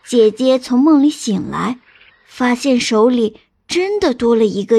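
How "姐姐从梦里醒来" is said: ordinary delivery, nothing marked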